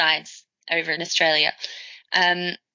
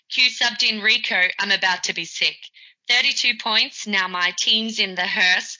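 poem recitation; 2 semitones higher than usual. Pretend. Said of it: "I call this Ode to a Liar".

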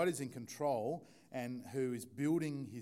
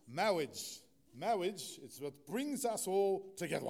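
lightly voiced pompous clergyman, a touch higher; Princess Bride clergyman; 5 semitones higher, 4 dB louder, slower than usual. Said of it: "That's my best impersonation I can get".

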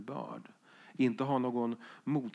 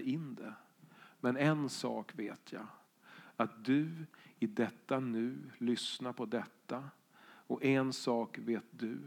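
poem reading; 4 dB quieter than usual. Shown as a demonstration. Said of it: "vi skulle kunna tänka oss följande inlästa dikt".

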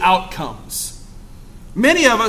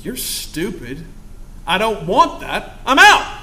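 scornful refusal; slower than usual. Retold or imitated. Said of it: "look at that guy and just go".

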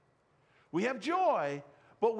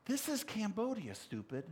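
imagined put-down; 5 dB quieter than usual. Retold or imitated. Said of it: "what he was really saying to me".

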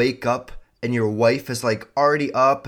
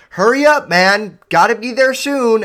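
much higher, loud impatient shouting; mock frantic hurry-up; impatient yelling; 10 semitones higher, 9 dB louder than usual. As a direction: rush him like a frantic friend. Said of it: "I hate when they're like".

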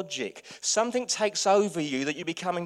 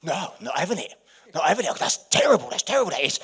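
indignant; 7 dB louder, faster than usual. Retold or imitated. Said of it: "I just get all indignant".

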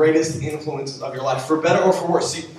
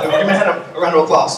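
calling for applause; 6 dB louder, faster than usual. Real, not acted. Calls for applause.

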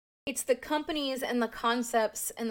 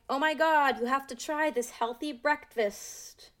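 imitating an enthusiastic influencer; lightly hammed-up excitement; gushing recommendation; 3 semitones higher than usual. Quoting the girl promoting the trend.

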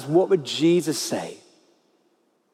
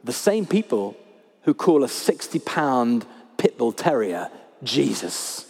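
deadpan punchline; 6 semitones lower than usual. Acted. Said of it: "the parrot replies".

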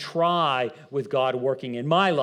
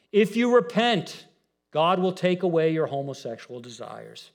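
mock preacher quote; 2 semitones higher, 4 dB louder than usual. Mocking a preachy claim.

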